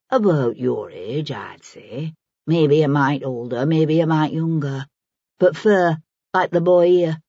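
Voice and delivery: put-on an earthy old woman in dialect; lightly played working woman, musing; lightly voiced Maggie. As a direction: take your time sizing them up, in dialect. Narrator voices Maggie describing a customer.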